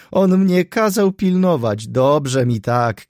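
loud, high-pitched indignation; indignant outburst. A narrator's reading. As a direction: exclaim it in scornful disbelief. Indignant, gloating monologue after a laugh.

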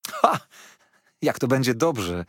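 a high, loud delighted "Ha!"; boy's delighted shout; excited cry. A narrator's reading. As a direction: burst out with a child's joy. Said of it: "zawołałem".

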